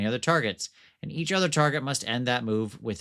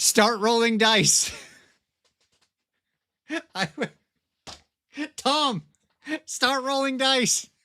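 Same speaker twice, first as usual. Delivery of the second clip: helpless laughing delivery, pitched way up, loud; 13 semitones higher, 5 dB louder than usual. Reading a game's rules aloud, laughing while talking. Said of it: "I can't stop laughing".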